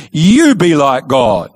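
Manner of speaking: a hint of the sly serpent, stretching each word; tempting serpent. Serpent coaxing Eve toward the fruit, slow and sly. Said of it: "Now he says to Eve".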